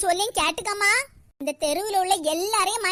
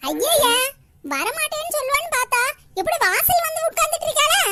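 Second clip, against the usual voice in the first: surprised exclaim; 5 semitones higher, 4 dB louder than usual. Acted. Surprised she sits at doorway.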